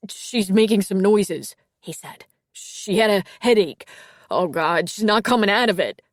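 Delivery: frightened and loud, on edge; panicked. A narrator's reading. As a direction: fight off panic on the call. Boyfriend panicking on emergency call.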